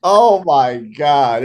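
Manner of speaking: breathless laughing through the words; real laughter, words stretched out slowly; cracking up while trying to speak; laughing hard. Real, not acted. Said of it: "I'm laughing so hard".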